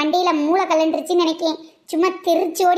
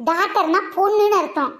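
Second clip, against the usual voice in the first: ordinary talk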